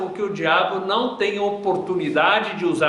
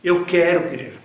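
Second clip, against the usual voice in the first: tearful plea; 4 semitones lower than usual. A narrator's reading. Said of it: "se lança em lágrimas e diz".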